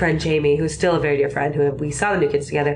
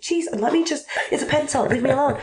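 higher, mild mock exasperation; exasperated shopper; 8 semitones higher than usual. A shopper brushes off a clerk, mildly exasperated. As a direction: whine it like a fed-up shopper. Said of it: "And you're like".

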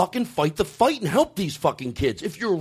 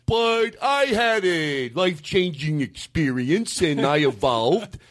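lightly put-on dopey voice, drawn out; mocking dumb Bob. Comedian imitating Bob boasting he evolved, mocking dumb voice. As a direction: play Bob as a proud dimwit. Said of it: "you're putting a dumb voice on it".

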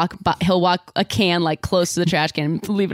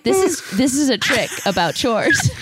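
mock protest; 6 semitones higher than usual. Retold mock protest over chores.

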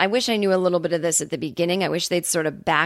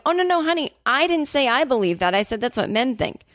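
light imitation, higher, falsely soothing; mock cult leader; 6 semitones higher than usual. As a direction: play Keith reassuring the women in a sugary tone. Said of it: "he never once breaks the thing".

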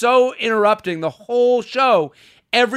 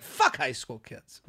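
muttered aside; 7 semitones lower, 9 dB quieter, slower than usual. Retold or imitated. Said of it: "And I was like".

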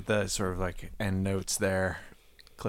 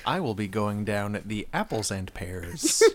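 mock Cockney accent. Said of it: "his thick Cockney brogue".

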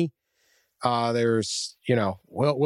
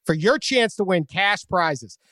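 upbeat ad read; booming prize announcer; 2 semitones higher than usual. Acted. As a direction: sell the contest like an announcer. Reads sponsor ad.

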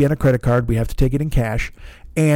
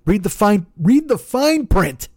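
condescending clerk; 8 semitones higher, slower than usual. Retold or imitated. Clerk dismissing him.

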